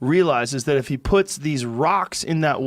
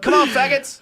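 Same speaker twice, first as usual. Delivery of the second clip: mock taunting raven; 11 semitones higher, 3 dB louder than usual.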